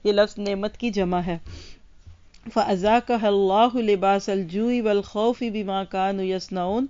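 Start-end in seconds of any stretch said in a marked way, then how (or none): 2.5-6.8 steady recited Arabic, unhurried; Quranic recitation. Acted. Teacher reciting Surah Nahl to the class, devout. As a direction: recite the verse with reverence.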